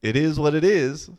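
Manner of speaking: self pep talk. Retold or imitated. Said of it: "then I was like".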